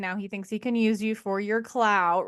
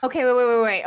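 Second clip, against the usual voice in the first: louder hurried wait wait; excited interruption; 6 dB louder, faster than usual. Real, not acted. Friend cutting in to catch up, louder and urgent. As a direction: jump in to stop the story, louder.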